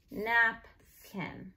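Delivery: "napkin" as two separated syllables; split by syllable. Shown as a demonstration. Teacher blending syllables for students, split by syllable. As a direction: say "napkin" as nap, pause, kin. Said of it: "you wanna spell by syllable".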